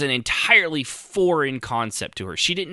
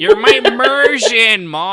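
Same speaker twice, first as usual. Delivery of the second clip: put-on whiny kid; 11 semitones higher, 7 dB louder, slower than usual. Mocking the kid, teasing.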